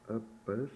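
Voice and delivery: Uppus in two separate syllables, "uh-puhs"; vowel sound drill. Shown as a demonstration. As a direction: model Uppus for a learner, short "uh" vowels. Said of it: "has a, a sound".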